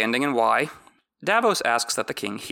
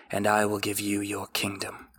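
whispered; 3 semitones lower, 6 dB quieter than usual. A narrator's reading. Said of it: "she whispered".

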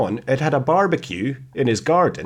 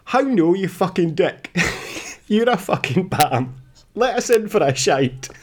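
higher, hammed-up drunk swearing at a stranger; mock drunken rant; 7 semitones higher than usual. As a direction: play the drunk turning nasty, half-laughing. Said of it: "clearly inebriated, the man continues".

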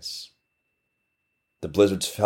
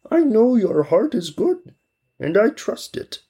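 put-on old man blessing.

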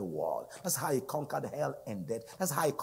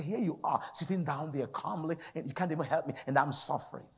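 higher-pitched, exasperated mock complaint; retold mad complaint; 5 semitones higher than usual. Driver complaining to the Holy Ghost sitting by, acted exasperation. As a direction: re-enact an aggrieved protest. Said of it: "And I was so mad".

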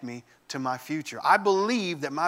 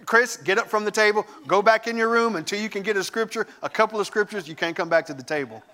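stern parent; 4 semitones higher, 3 dB louder than usual. Retold or imitated. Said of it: "Mom was like".

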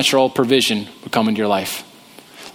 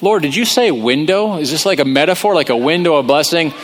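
confused Elijah. Retold or imitated. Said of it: "I can imagine Elijah's like".

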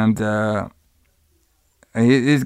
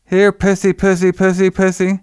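higher, level-pitched mock kitty call; imitated cat call; 6 semitones higher than usual. Donald calls to the neighbor's cat, mock coaxing call. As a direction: repeat it evenly, as if luring a cat.

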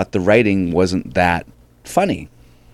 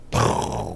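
imitated explosion; 10 semitones lower, 7 dB quieter than usual. Imitates a joke landing explosively.

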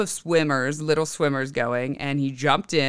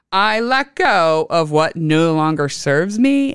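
calm affirmation; 4 dB louder, slower than usual. Shown as a demonstration. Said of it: "a general one to throw out there".

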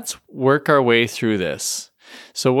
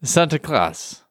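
slow, higher put-on Dutch accent; 4 semitones higher, slower than usual. Shown as a demonstration. Podcast host retrying Santa Claus in a Dutch accent. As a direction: Claus said with a short Dutch "klass" ending. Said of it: "the best Dutch accent I've ever heard".

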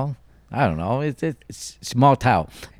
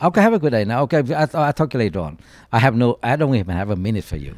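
fake politeness; faster than usual. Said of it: "I always say, if I'm polite".

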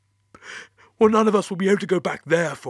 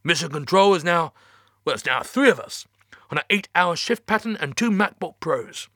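high, strained, near tears; fighting not to cry; holding back tears; 8 semitones higher, 4 dB louder than usual. Acted. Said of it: "trying to stifle the tears".

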